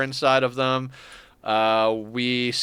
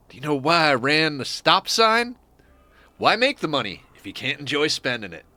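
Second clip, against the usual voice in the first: lightly voiced comedian telling a bit; comic storyteller voice; stand-up bit; 3 semitones higher than usual. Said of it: "he did this stand-up bit".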